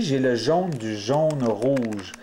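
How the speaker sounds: slow, each word set apart for the learners; slow and deliberate. Shown as a demonstration. Teacher naming the cube piece slowly for viewers, slow and deliberate. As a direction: spell out the colours slowly, like a teacher. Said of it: "teacher spelling out cube piece".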